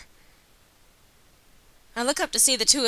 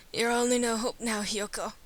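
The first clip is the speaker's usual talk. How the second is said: hammed-up fading last words; melodramatic; 5 dB quieter than usual. Wounded Ryota passing on the last hope, melodramatic. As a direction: play the dying friend, trailing off softly. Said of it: "might be being a little melodramatic".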